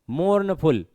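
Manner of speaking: "मोर्नफुल" with a break between "मोर्न" and "फुल"; broken into syllables. Shown as a demonstration. Teacher showing where the word breaks, "मोर्नफुल" split in two. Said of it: "टूट रहा है कहीं ना कहीं".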